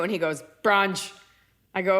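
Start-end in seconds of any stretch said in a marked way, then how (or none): none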